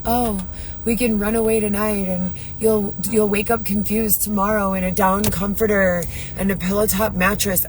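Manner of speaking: lightly voiced dreamy promises, mocking; mocking Dylan's sweet talk. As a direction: parrot his romantic pitch with light scorn. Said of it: "Dylan style".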